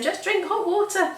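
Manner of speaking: high-pitched imitation of a viewer's advice; a hammed-up know-it-all; mock viewer voice. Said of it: "You'll be saying".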